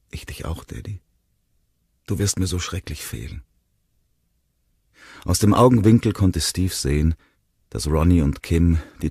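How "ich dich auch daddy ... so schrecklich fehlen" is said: very soft, almost whispered reply; quiet childlike sorrow, slightly higher; small, sad child. A narrator's reading. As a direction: answer Dad in a tiny hushed voice. Tearful boy answers farewell.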